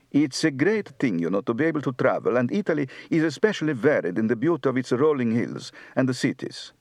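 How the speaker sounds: light northern Italian accent, fast and even; Florentine Italian accent. Shown as a demonstration. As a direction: speak like a Florentine, a touch of Tuscan Italian. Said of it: "Northern, Florentine".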